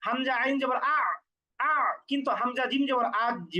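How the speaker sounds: "আ" said with a medium ain, then "আজ" with a hard stopped jim; soft ain versus hard jim. Shown as a demonstration. Teacher contrasting a medium ain with a hard jim. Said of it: "এইরকম কঠিন না".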